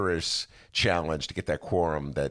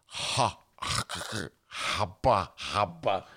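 flustered stammer; 3 semitones higher, much slower than usual. Retold or imitated. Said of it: "and I'm like".

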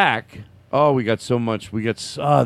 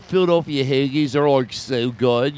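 bad Philadelphia impersonation. Shown as a demonstration. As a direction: do a clumsy Philly accent. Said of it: "a shitty impersonation of it".

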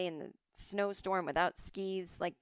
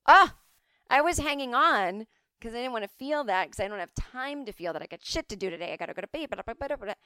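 loud, higher frantic rush of excuses; exasperated outburst; 4 semitones higher, 7 dB louder than usual. Retold or imitated. Herself in therapy, fending off tears, exasperated outburst. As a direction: blurt it out like you're too busy to feel. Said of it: "I'm like".

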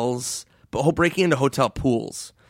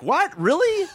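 high, feigned disbelief; put-on astonished questions; mock surprise; slower than usual. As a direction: play innocent, pitch leaping right up. Band feigning surprise to the guard.

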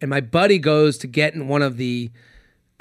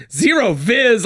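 higher, brisker mock quote; buddy's amused repeat; 6 semitones higher, slower than usual. Buddy repeating the diver's phrase, amused mock quote. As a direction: echo the phrase in disbelief, less stretched. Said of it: "he's like".

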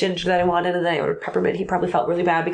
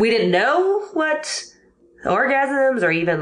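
giggly high squeal; 7 semitones higher, slower than usual. Real, not acted. Telling a podcast host about teen crushes, high slow squeal. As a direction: voice jumps way up, drawn out slowly.

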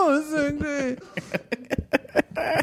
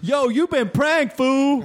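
prank reveal laughing; 5 semitones higher, much slower than usual. Pretend.

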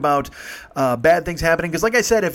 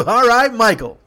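high, loud mock whoop; delighted approval; 9 semitones higher, 7 dB louder, slower than usual. Laughing women to their driver Michael, delighted approval. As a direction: imitate rowdy women cheering the driver on.

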